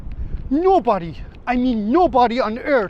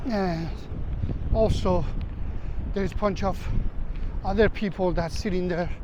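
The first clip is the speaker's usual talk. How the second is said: lowered, hushed voice about the danger; hushed vlog narration; 3 semitones lower, 6 dB quieter than usual. Acted. Narrating a dangerous beach to viewers, hushed. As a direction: keep it low as if the guards might hear.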